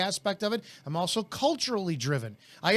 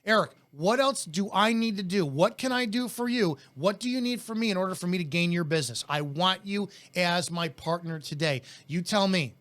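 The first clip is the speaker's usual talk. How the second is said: aggressive. Shown as a demonstration. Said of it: "my tonality is aggressive. It's intense. It's very in your face".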